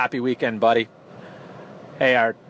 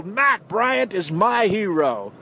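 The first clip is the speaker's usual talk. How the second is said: higher, slow mock announcer; light imitation of a game-winning call; imitating radio call; 6 semitones higher, slower than usual. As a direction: savor each word like the radio man. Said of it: "I always remember Gene Deckerhoff".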